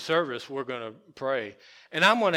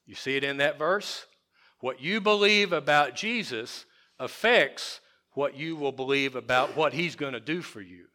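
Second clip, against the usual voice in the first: ordinary delivery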